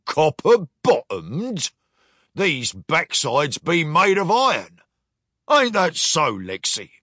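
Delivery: lightly voiced gruff captain; a hint of pirate swagger. Captain mocks the commander, lightly piratical.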